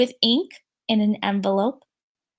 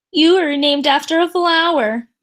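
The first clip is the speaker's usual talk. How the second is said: taunt; 3 semitones higher, 4 dB louder than usual. Acted. Victoria taunts Chrysanthemum.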